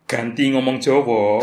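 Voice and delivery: slow, bassy Javanese delivery; drawn-out demo of a bassy voice. Shown as a demonstration. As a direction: drop into a Javanese bass. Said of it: "suara gua ngebas kayak gitu".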